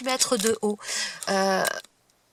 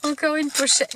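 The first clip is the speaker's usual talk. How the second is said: laughing; 5 semitones higher than usual. Real, not acted. Finds yet another pouch.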